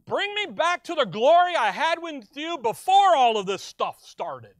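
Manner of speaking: high, loud pleading to the Father; voicing Jesus. Jesus pleading with the Father, loud and high. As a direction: cry out the longing to go home. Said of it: "he says".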